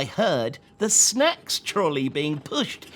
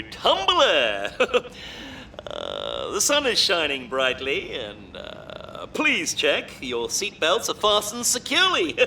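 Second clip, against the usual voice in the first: pilot announcement. Acted. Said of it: "make an announcement to the passengers".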